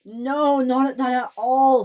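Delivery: high-pitched shriek of denial. Acted. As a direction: shriek your innocence. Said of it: "shrieked James".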